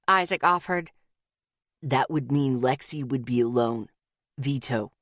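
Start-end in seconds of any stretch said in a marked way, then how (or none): 1.8-4.9 absent. A narrator's reading. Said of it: "Zeke stated absently".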